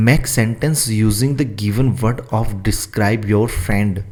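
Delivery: very slow, word by word for copying; slow dictation. Shown as a demonstration. Teacher dictating the question to students, slow and careful. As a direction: read it out slowly so students can write. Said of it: "अपने friend के बारे में describe अपने को करना है".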